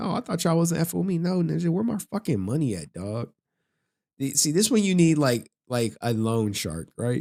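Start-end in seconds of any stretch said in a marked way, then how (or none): 0.0-1.2 high-pitched, put-on innocent tone. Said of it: "trying to reverse psychology this person".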